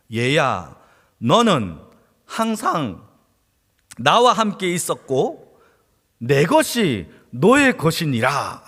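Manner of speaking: slow, tender fatherly reply; father tenderly reassuring his elder son; gentle father. Acted. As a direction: soothe the hurt son slowly.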